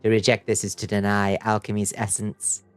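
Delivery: lightly voiced sinister alchemist; silly villain voice. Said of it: "I'm doing my silliest villain voice".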